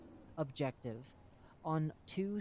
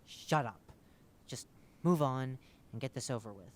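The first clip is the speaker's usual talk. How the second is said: suppressed anger; 4 dB louder than usual. Acted. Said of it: "tries not to explode with anger".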